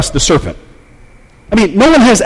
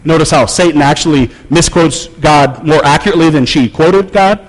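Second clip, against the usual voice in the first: usual speaking voice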